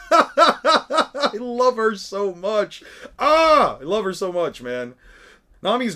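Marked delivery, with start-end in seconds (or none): 0.0-2.8 gushing fangirl. Real, not acted. Gushing over Nami. 3.2-3.8 delighted cry. Real, not acted. Gushing over Nami.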